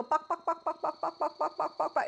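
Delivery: high bird-like clucks in a chirpy put-on voice; cockatiel clucking. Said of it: "He'll also go".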